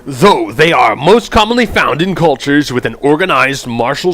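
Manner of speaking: punchy, projected narrator read; emphatic read-aloud narration; dramatic game text narration. Acted. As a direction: announce the warrior class with emphatic swings in pitch.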